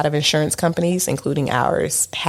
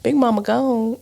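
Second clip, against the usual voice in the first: laughing; 9 semitones higher than usual. Real, not acted. Joking, laughing at partner.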